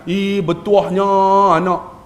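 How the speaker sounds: slow, drawn-out cooing; doting mother's praise. Acted. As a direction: gush over the child in mock delight. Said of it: "kita kena mak-mak ni".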